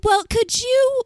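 drawn-out, rising huffy caller; mock exasperation. Imitating caller hearing the owner is away, exasperated. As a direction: imitate a put-out customer, stretching it high. Retold irate customer on phone.

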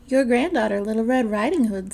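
put-on a sly wolf putting on a sweet child voice; the wolf pretends to be the granddaughter at the door, lightly disguised; wolf disguising his voice. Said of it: "disguising his voice".

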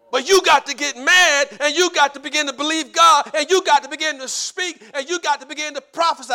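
urgent, rhythmic pulpit exhortation; fervent preaching. Real, not acted. Preacher urging the congregation to believe, fervent preaching. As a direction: build it phrase on phrase.

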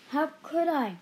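high, loud echo of the question; mock-incredulous father; echoed incredulity. A narrator's reading. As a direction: throw the shocked question back.

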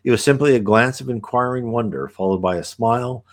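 put-on measured reading of an old visionary text; unhurried scripture-like reading; reading aloud. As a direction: read it as a solemn, flowing passage. Reads passage aloud.

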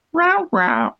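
high mock meow at the cat; playful high cat call. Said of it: "you can go like".

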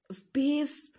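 breathy whisper on peace. Real, not acted. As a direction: hush it like a secret. Soft self-love pep talk.

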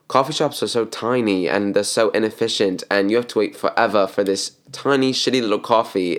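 lightly put-on British accent. Customer complaining about coffee shops back home, in a light British accent. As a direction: imitate a chatty British customer. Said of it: "but with a British accent".

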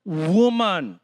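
low, exasperated address; mock irritation, dropped low in pitch; irritated. Irritated Jesus addressing his mother as woman, exasperated. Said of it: "Jesus gets so irritated".

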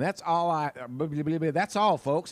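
lightly voiced stuttering cartoon sign-off. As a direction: stumble comically into the catchphrase, then land it.

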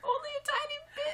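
high, breathless whisper. Real, not acted. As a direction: tease in a hushed voice. Teasing whisper reply.

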